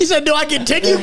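high, cracking up; high-pitched mocking imitation; incredulous mocking repeat. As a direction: quote it back in disbelieving hilarity. Friend mockingly repeats the quote, laughing.

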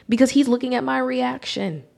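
ordinary delivery

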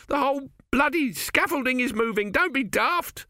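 shrill with panic at the moving scaffold; frightened workman snaps at his brother; panicky builder. Acted.

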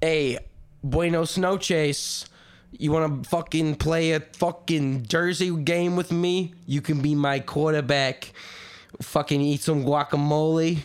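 lightly put-on Mexican accent, unhurried; quarterback's bad mock Mexican accent; Dan Marino. Podcaster as quarterback impersonating a Mexican guy, mock Mexican accent. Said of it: "I can do an impression of Dan Marino im".

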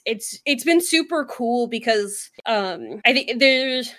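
breathless, talking between breaths; out of breath from talking fast. Real, not acted. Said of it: "whew, hold on, I gotta catch my breath".

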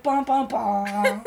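slow, drawn-out "bum, bum, bum"; mock doom sound. Podcaster imitating Satan dropping sinners into hell, mock doom sound. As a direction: sound an ominous Satan sting, slowly. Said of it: "Satan would be like".

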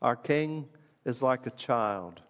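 hushed, slowed reflection; soft and slow. Shown as a demonstration. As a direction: let it sink in quietly. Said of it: "he'll have everybody sing it".

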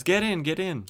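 high-pitched mock urgency; retold urgent urging. Sharon urging the shocked hero into the car, retold urgent urging.

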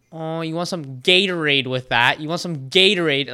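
mock British accent slipping into Canadian; British accent turning Canadian. English player taunting a Canadian walking off, slipping accent. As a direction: imitate a Brit whose accent drifts Canadian. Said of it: "his accent was turning into Canadian".

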